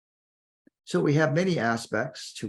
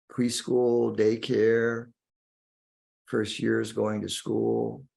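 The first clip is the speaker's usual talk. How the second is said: guided meditation. Acted. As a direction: guide the listener inward, lingering on key words.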